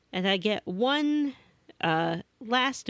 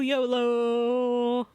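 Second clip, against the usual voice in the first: laughing yolo; 3 semitones higher than usual. Retold or imitated. Savos apologizes retold.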